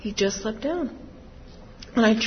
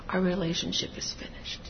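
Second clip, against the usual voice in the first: softer, a touch subdued; quiet; 2 semitones lower, 10 dB quieter than usual. Retold or imitated. Imagined statement, quiet.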